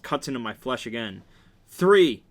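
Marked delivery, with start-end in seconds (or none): 1.7-2.2 high, very loud yelled count; pained yell. A narrator's reading. Counting the third blow of the belt, yelling. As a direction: cry the number out hard.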